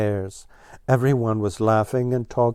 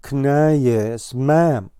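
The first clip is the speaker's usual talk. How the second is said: chortling; 3 semitones higher, 4 dB louder, much slower than usual. Acted. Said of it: "chortled Blue Jay".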